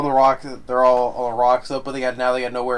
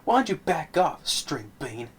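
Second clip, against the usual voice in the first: much higher, louder sarcastic barking back; heated argument; 8 semitones higher, 4 dB louder than usual. Retold or imitated. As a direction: throw the insult back in his face. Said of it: "Kevin Bacon gets on his face like".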